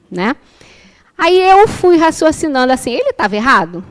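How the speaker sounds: ordinary delivery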